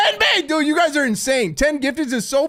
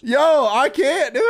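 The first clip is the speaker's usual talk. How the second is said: laughing; 3 semitones higher, slower than usual. Real, not acted. Overwhelmed by gifts.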